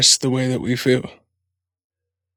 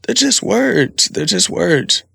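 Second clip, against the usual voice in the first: gentle reassurance; 5 semitones higher, slower than usual. Retold or imitated. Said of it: "I was like".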